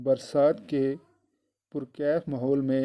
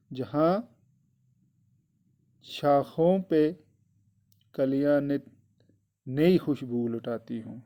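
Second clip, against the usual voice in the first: slow, deliberate word by word; slow reading. Shown as a demonstration. Teacher dictating the poem line to the children, slowly. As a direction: spell the line out slowly for pupils. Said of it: "teacher repeats the poem line".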